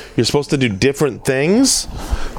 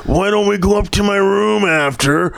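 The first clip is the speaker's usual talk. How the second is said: imitating Stan; 9 semitones higher than usual. Quoting fellow comedian Stan.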